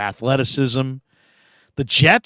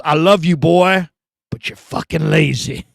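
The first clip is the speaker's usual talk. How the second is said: coach's voice. Retold or imitated. Coach's blunt verdict, quoted.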